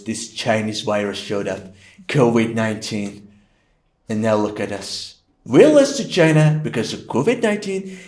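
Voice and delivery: lightly voiced boastful president; boastful president impression. Shown as a demonstration. Ex-president blames virus and rival, light impersonation. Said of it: "when I was president".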